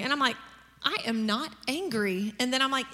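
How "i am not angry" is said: slow, word-by-word "I am not angry"; measured, insistent "I am not angry"; deliberate denial. Retold or imitated. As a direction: space out "I am not angry" firmly. Retold indignant denial of anger.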